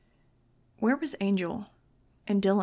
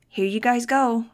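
put-on cult boy; 3 semitones higher, 6 dB louder, slower than usual. A narrator's reading. Josh handing out flyers, brainwashed.

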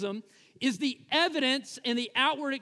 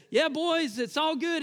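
higher-pitched imitation of a movie convert; Delmar; 5 semitones higher than usual. Newly baptized man to his boys, high mock assurance.

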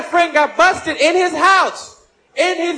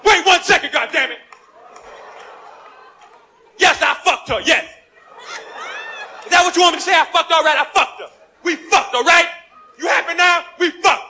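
exasperated shout; 4 semitones higher than usual. Acted. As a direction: snap back in frustration. Husband snaps back at wife.

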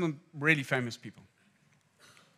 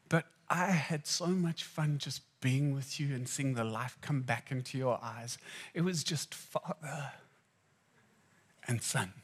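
tender father. Retold or imitated. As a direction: recall it like a loving dad. Father gently recalls the sick son.

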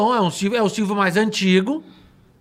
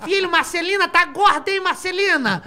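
high, hammed-up nagging mother; shrill mock mom scolding her kid; Paulo Gustavo voice; 10 semitones higher than usual. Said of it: "a mãe lá".

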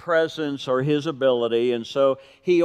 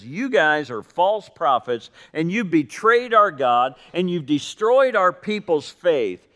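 emphatic, building retold rebuke; laying into them; 4 semitones higher than usual. Prophet lays into false prophets, retold rebuke. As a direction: drive each accusation home, a touch angry. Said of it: "Elijah lays into him".

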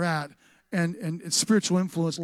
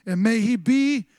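raised, ringing Bible reading; scripture proclamation; 5 semitones higher, 7 dB louder, slower than usual. Acted. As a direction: proclaim the blessing to the congregation. Reads scripture aloud as proclamation.

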